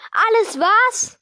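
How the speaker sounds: loud, high, drawn-out outraged question; slow, booming echo of outrage; thundering. A narrator's reading. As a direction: thunder it back in disbelief, stretched out. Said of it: "donnerte Hagrid".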